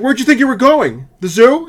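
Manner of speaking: high, loud sneering question; mock snide teacher. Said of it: "she's like".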